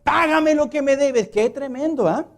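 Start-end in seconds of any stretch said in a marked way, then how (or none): 0.0-1.3 demanding. Acted. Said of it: "le ahogaba diciendo".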